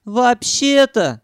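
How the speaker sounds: high, slow, drawn-out; Sanyok's high voice. A narrator's reading. Sanyok repeating his old line, high and slow. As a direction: stretch it out like a broken record. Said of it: "завёл старую пластинку Санёк".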